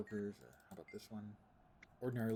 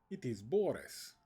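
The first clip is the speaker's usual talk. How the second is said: slow, louder mock Russian accent, hammed-up; a deliberately bad Russian accent, drawn out; 3 semitones higher, 5 dB louder, slower than usual. Streamer imitating Boris the Strongman in mock Russian accent. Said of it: "with bad Russian accent".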